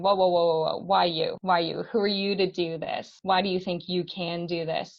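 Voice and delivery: a hint of a doubting inner critic; loud whoas, then challenging; inner imposter voice. The inner imposter mocking her ambition, lightly voiced. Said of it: "inner imposter that's coming out and saying".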